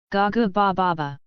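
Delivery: put-on light babbling baby voice; baby babble. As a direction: coo like a giggling baby. Babies wake up giggling.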